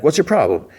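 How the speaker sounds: mock annoyed, pitch jumped up; retold irritation. Conductor rebuffing the lady worker, imitated high irritated voice.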